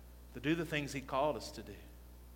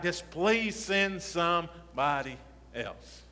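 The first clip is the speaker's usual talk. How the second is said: drawn-out pleading; 2 semitones higher, much slower than usual. Retold or imitated. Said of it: "and you're like".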